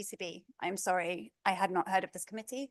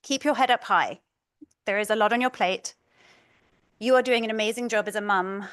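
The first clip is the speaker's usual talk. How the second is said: reading a supportive text aloud, a bit louder; reading a kind message; 3 semitones higher, 7 dB louder than usual. Retold or imitated. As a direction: read a friend's message with heartfelt care. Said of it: "And lastly".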